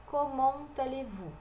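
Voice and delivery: comment allez-vous with T linked into allez; French pronunciation. Shown as a demonstration. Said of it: "a liaison do T com A". (comment allez-vous com liaison do T)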